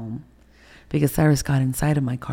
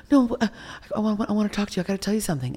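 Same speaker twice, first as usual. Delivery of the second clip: lightly voiced, higher stammering plea; raised, hesitant retold protest; flustered man; 8 semitones higher, faster than usual. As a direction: imitate him scrambling to explain himself. Acts follower stammering when confronted.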